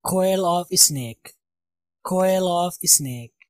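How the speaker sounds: coil of snake, very slow with coil stressed; slow pronunciation demo. Shown as a demonstration. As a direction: drag out each word for learners. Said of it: "صحیح تلفظ کے ساتھ". (بہت آہستہ، coil پر زور دے کر)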